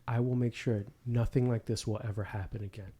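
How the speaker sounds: low-key, softly menacing monotone; quiet, even threat in a monotone; scary monotone. Retold or imitated. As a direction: retell a killer's cold monotone vow. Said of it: "just very monotone".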